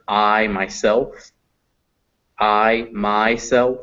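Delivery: slow, separated "I myself"; example words for I. Shown as a demonstration. Teacher repeating an example of I, slow "I myself". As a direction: draw out both ah-to-I glides in "I myself". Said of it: "That makes I".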